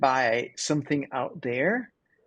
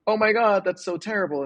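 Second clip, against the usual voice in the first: higher mock dismay; mock horrified neighbors; 5 semitones higher than usual. Neighbors pitying the old man over the broken leg, mock dismay. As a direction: neighbors half-mockingly aghast, pitched up. Neighbors pity in retold story.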